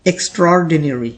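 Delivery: slow model of extraordinary, "extra" fused into "ek-stror"; correct pronunciation. Shown as a demonstration. Teacher models the correct word for learners, careful correct pronunciation. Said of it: "इसकी जो correct pronunciation होती है".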